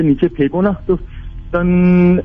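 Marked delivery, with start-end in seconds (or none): 1.5-2.2 slow drawn-out mock clang of metal rods; stretched imitation of a metal clang; imitated clang. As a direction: ring it out like a falling iron rod. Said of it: "ऐसी आवाज आती है".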